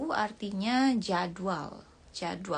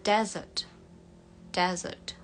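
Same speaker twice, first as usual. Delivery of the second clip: British accent; slower than usual. Shown as a demonstration. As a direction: say "Desert" the British way, r dropped. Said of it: "Untuk British desert". (logat British)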